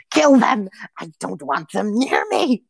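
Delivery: shrill high order, then fear; frantic hag command. Acted. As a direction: screech at the minions to protect her.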